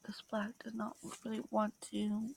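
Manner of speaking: soft whispered complaint; frustrated whisper. Real, not acted. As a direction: grumble quietly to yourself.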